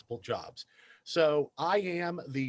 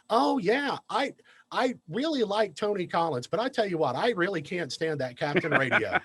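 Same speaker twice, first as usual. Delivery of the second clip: lady's voice; 4 semitones higher than usual. Retold or imitated. Lady's quote retold, high voice.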